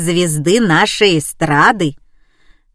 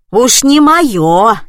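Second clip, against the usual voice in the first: loud, slow, indignant; angry retort; 4 semitones higher, 7 dB louder, much slower than usual. A narrator's reading. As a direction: fling it back at the caller. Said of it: "обозлилась баба с той стороны".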